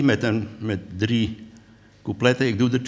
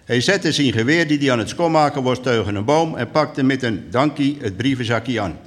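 lively storyteller's reading; measured dialect storytelling; story narration. A narrator's reading. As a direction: tell it to an audience as a tale. Reads a story aloud.

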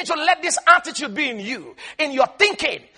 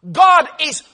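higher, slow, drawn out; slow emphasis; 6 semitones higher, 5 dB louder, slower than usual. Shown as a demonstration. Preacher to congregation, slow and raised. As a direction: stretch it out as you say it. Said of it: "preacher dwells on slowness".

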